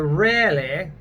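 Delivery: British "really" with an American-like R; British "really", R sounded clearly. Shown as a demonstration. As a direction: stretch "really" slowly in British English. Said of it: "R there is very similar to an American".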